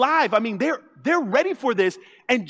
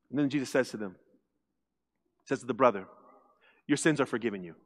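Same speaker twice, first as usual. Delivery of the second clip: much lower, softer story voice; hushed storytelling; 11 semitones lower, 9 dB quieter, much faster than usual. A narrator's reading. Preacher hushing the crowd, soft and low. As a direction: drop to a hush and tell it gently.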